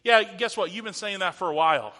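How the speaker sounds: loud, dismissive brush-off; mock dismissal, quickening at the end; mocking scoffer. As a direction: imitate a scoffer waving the claim away. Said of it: "These scoffers are mocking".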